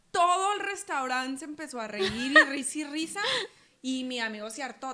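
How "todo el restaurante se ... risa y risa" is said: words squeezed out between laughs; laughing fit. Real, not acted. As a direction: giggle uncontrollably through it. Laughing fit while retelling.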